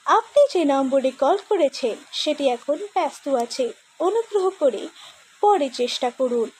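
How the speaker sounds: recorded phone-network announcement; phone IVR voice. Acted. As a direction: read it like an automated busy-line message. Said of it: "the phone I V R voice".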